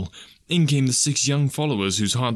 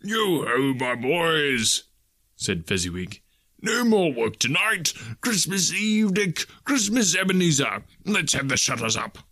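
put-on a jolly old master calling out high and bright; jovial cry; 4 semitones higher, slower than usual. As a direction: cheer the boys into Christmas Eve. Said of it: "cried old Fezziwig".

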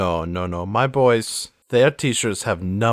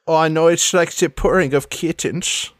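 put-on lightly theatrical accented villainess; preen, with slushy s sounds; Sans Serif, preening; 8 semitones higher, 4 dB louder than usual. Accepting praise of her voice, preening in accent. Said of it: "I've missed your voice so much".

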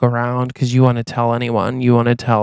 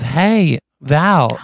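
higher, drawn-out call; 3 semitones higher than usual. Acted. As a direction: call over to someone passing by. Man in dunk tank calls out to her.

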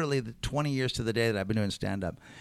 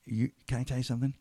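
mock quiet rant; 6 semitones lower, 6 dB quieter than usual. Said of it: "really quietly".

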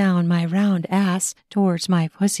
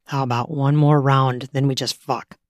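low male suggestion; 6 semitones lower than usual. Acted. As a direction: lower man's voice, playful. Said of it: "he suggests".

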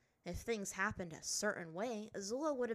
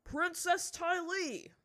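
slow, stunned outcry; surprised exclamation; 10 semitones higher, 8 dB louder, much slower than usual. A narrator's reading. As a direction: recognize a lost daughter. Chief recognizes his daughter.

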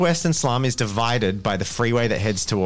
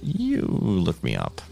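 noir detective; 3 semitones lower, 3 dB quieter than usual. Acted. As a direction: play a gumshoe, low and unhurried. GM voicing Chessex, noir-ish info broker.

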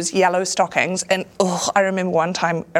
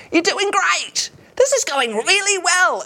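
put-on much higher, slow, overdone drunk cheering; drunk friend; 12 semitones higher than usual. Drunk friend heckling from the crowd, high slow cheering. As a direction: cheer it slurry and slow like a tipsy mate.

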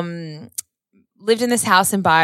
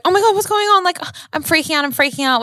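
retold panic; 11 semitones higher, faster than usual. Scared girlfriend to waking boyfriend, high frantic panic. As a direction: spill it out in a rush of fear. Retelling her own panic.

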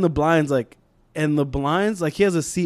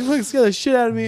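fast, higher complaint, imitated; mock near-tears scolding; 7 semitones higher, faster than usual. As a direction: act out someone rattled by a scare. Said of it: "fucking halfway in a tear".

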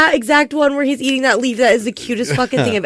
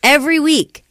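exasperated, a little raised; exasperated repeat; 3 semitones higher than usual. Real, not acted. Fed up with kids every time, exasperated. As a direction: say it as the first of mounting complaints.

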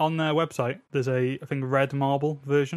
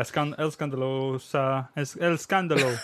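mock Spanish; slower than usual. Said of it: "That's how it is, I think".

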